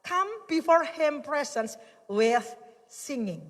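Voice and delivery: slow drawn-out verse, fading on singing; scripture reading. Acted. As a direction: proclaim it slowly, let the last word drop. Reads Bible verse slowly. (membaca ayat perlahan, suara turun di akhir)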